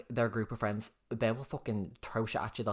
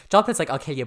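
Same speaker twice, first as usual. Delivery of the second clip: higher and louder mock threat; excited mimicry; 4 semitones higher, 10 dB louder, faster than usual. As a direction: mimic a friend's hothead threat. Friend mimics Jonathan.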